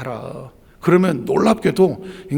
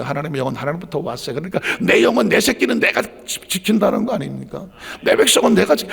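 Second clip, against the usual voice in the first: usual speaking voice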